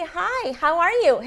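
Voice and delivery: high, loud, drawn-out greeting; English teacher's greeting. Acted. Online teacher greeting a beginner child, acted slow and high. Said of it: "그래서 선생님이".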